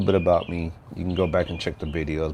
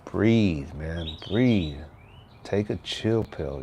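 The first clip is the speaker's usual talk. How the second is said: calm self-talk; much slower than usual. Shown as a demonstration. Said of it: "when I feel myself getting worked up".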